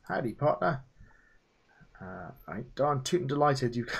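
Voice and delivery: a light hint of a cowboy accent; lightly put-on cowboy accent, friendly. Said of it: "I like the accent".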